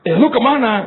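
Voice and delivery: high nosy gossip question; pry again, eager; gossipy lady voice. Retold or imitated. Competitive church lady asks friend, high and nosy.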